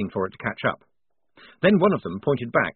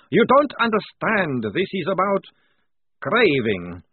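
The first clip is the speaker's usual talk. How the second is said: louder, higher, slowed down; intense, desperate; 7 semitones higher, 4 dB louder, slower than usual. Acted. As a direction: force every word out, strained. Vampire pleads his craving.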